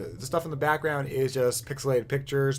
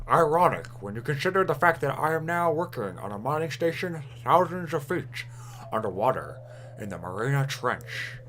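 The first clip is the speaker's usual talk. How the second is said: lightly voiced ship captain reading. Shown as a demonstration. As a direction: read the log like a captain. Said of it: "I could do this in a captain voice".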